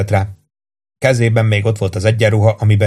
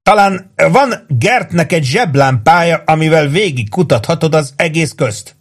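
raised pitch with suppressed laughter; between fits of laughter; 7 semitones higher than usual. A narrator's reading. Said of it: "mondta Warden két röhögő görcs között".

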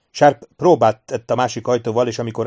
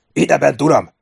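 raised, higher sergeant's call; ringing shout; 4 semitones higher, 6 dB louder than usual. A narrator's reading. Sergeant calling to his officer across the courtyard, ringing shout. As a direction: call out sharply across a space. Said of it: "hangja harsant az udvaron".

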